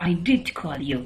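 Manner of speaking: defensive emphasis on "did"; stress on did. Shown as a demonstration. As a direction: insist with "did", rebutting an accusation. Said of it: "to put emphasis on the idea".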